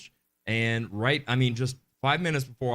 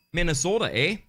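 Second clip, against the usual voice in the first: put-on Minnesota accent; 4 semitones higher, 4 dB louder than usual. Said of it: "click her accent bell".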